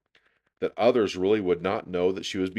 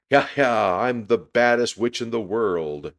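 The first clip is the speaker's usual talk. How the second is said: high, loud, gleeful boast; loud witch boast; 4 semitones higher, 7 dB louder than usual. A narrator's reading. Ramona carried away, chasing Susan, loud boast. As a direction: crow it like a child playing witch.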